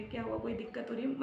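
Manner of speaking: husband anxiously repeating his question, hushed; worried asking. Retold or imitated. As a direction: ask it again quietly, scared for her. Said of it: "वो डर गए".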